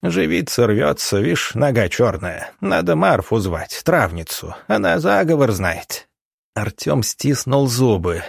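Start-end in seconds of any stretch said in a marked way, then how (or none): 0.0-6.1 high, lightly voiced old woman; a hint of a superstitious crone. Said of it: "прошамкала она".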